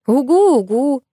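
teasing mimic of a dull uh-huh, first one high and loud; little sister mockingly echoing the reply; mocking imitation. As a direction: parrot her sister to tease her. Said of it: "передразнила меня Ангелина".

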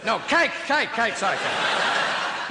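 flustered, high panicked backpedal. Retold or imitated. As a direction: scramble to take it back. Victim panics correcting choice.

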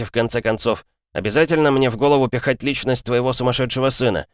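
high, heated tirade; furious rant. A narrator's reading. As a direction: pour out angry protest. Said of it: "взъярился я". (гневная тирада)

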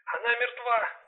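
high, soft, shaken cry; a partner in shock, voice trembling. Acted. Partner tells detective the victim died, trembling. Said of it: "дрожащим голосом сказала Аусинья".

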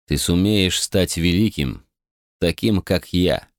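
a hint of a slow pep talk; Kelsier's voice. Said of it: "произнёс голос Кельсера".

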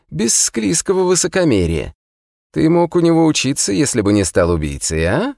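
put-on high, sly taunting old prisoner; mocking immortal prisoner. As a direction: needle him with sly scorn. (язвительный узник высоким голосом)

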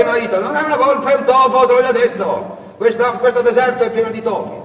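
high, loud correcting husband; the husband correcting his wife about the fox; patient husband. Acted. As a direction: set her straight with a sigh.

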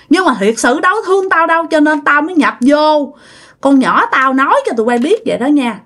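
acted stern warning; mildly indignant telling-off, pitch rising in bursts; retold scolding. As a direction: imitate a spirit laying down orders to disloyal children. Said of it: "chửi cô Năm quá trời chửi".

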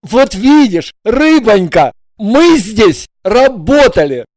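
loud, slow reproachful husband voice; reproachful exclaim. A narrator's reading. Husband reproachfully exclaiming to his wife. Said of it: "воскликнул с укором".

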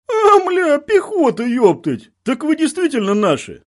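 loud, high burst of joyful relief; excited shout. A narrator's reading. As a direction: yell it out, overjoyed. Tanker recognizes his own side. (радостный крик)

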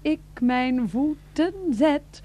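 slow, solemn hymn recital; reciting hymn. Acted. Freek's wife reciting the hymn verse, solemn. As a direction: intone the verse slowly.

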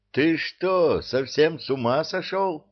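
snapping at him; angry outburst. Acted. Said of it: "Накинулся на него Кевин".

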